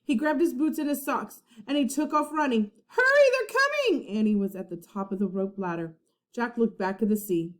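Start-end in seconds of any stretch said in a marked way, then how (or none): 2.9-4.1 high, fast, breathless alarm; urgent warning. A narrator's reading. Annie warning Jack that pirates come, high fast alarm. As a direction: warn him with rising panic.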